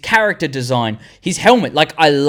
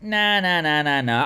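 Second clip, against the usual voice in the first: retold refusal; 7 dB quieter, slower than usual. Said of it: "And I was like".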